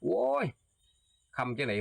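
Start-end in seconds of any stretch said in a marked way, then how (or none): 0.0-0.5 surprised exclamation. Acted.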